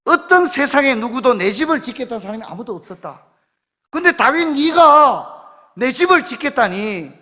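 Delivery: preacher swelling with awe at David's offer; rising fervor. Acted. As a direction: build the amazement toward God's reply.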